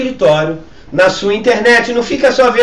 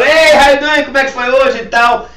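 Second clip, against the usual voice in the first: joking greeting; 6 semitones higher, 5 dB louder than usual. Retold or imitated. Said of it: "Eu sempre tenho uma piada".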